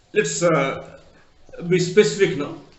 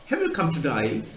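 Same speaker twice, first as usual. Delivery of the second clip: a hint of Australian accent, "die" for day; lightly imitating an Australian saying "die"; 2 semitones lower than usual. Australian asking a visiting Indian, mild Australian accent. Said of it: "That is how an Australian pronounces".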